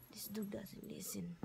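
soft unvoiced aside; whispering. Real, not acted. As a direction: whisper it to yourself. Aside about dog.

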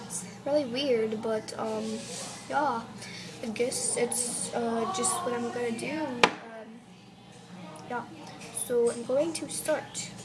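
put-on British accent. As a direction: chat in an amateur British accent. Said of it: "talk in a British accent".

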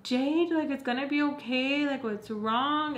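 high, coaxing comfort; babying. Retold or imitated. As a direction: imitate a friend fussing over someone upset. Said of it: "babying the hell out of me".

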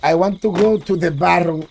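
"I want to go to the barroom" in Spanish-accented English; proud "barroom" with a Spanish r; showing off English. Shown as a demonstration. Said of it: "para que tú veas". (presumiendo inglés con acento latino)

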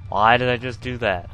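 laughing. Real, not acted.

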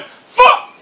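very high, loud burst; enraged scream. Real, not acted. Gamer cursing as the ball rolls wrong, enraged scream. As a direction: let the curse explode. Swearing at the game.

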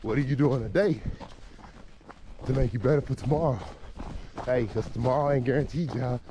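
out of breath from jogging uphill; talking while jogging; while running. Real, not acted. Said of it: "Hard to talk and jog on these hills".

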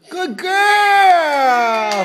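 high squealing praise, shouted; squeaky praising a dog. Real, not acted. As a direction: cheer her on in a high squeal. Mother praising baby eating.

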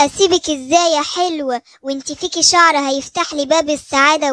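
lightly voiced wicked witch, coaxing and threatening; storybook witch.

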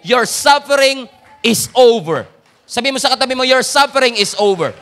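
loud, fervent preacher's cry; full-force preaching. Acted. Pastor telling the congregation their suffering is over, loud and fervent. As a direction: drive it home to the whole hall.

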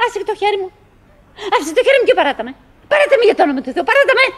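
high, laughing plea to let go; laughing protest. Acted. Winnie acting the wife pulling her hand free, laughing.

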